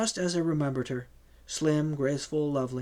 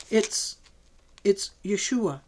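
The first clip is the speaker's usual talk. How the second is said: wailing; 5 semitones higher, slower than usual. A narrator's reading. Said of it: "she wailed".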